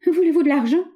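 high, loud choked stammer; terrified girl offering money to the bandit. A narrator's reading. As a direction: force the offer out through fear. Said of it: "bégaya-t-elle d'une voix étranglée".

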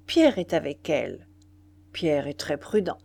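low, peaceful reassurance; calme paisible. A narrator's reading. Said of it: "de sa voix paisible". (voix grave, paisible et rassurante)

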